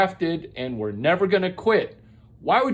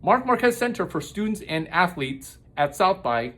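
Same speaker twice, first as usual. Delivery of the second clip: dictating. Shown as a demonstration. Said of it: "end quote".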